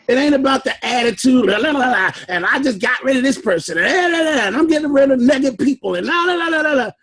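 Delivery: mimicking empty chatter with sing-song la-la filler; mock griping. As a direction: rattle off a mock complaint, trailing into la-la-la. Mocks people's dismissive complaining.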